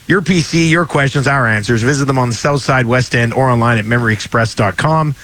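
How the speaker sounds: brisk radio ad read. Acted. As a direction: read it like a commercial. Reads sponsor ad.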